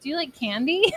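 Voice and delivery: creepy person. Retold or imitated. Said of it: "I sound like a creepy person".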